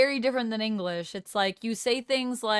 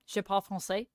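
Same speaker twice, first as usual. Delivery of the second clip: French with a light Quebecois accent; casual French, leaning Quebecois in accent. Shown as a demonstration. Streamer asked for a French accent, Quebecois-leaning French. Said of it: "it's gonna lean more Quebecois".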